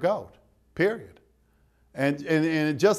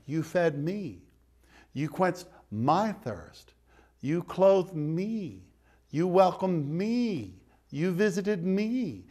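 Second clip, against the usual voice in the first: hushed quoting; 5 dB quieter, slower than usual. Acted. Jesus' words, read hushed.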